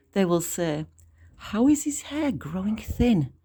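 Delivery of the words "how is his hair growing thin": gossiping onlookers. Acted. Mocking onlookers quoted in poem.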